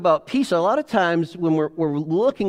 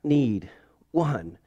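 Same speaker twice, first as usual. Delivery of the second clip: weary plea; 2 semitones higher than usual. Retold or imitated. Exhausted person begging God for peace. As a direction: plead for one moment, worn out. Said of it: "And you're just like".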